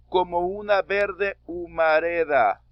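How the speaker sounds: teacher reads the verse aloud slowly; slow verse reading. Shown as a demonstration. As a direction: read the verse slowly for counting. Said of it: "termina en vocal y empieza con H muda".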